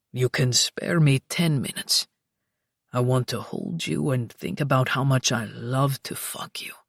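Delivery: deep husky whisper; low male whisper. Acted. Luca voiced.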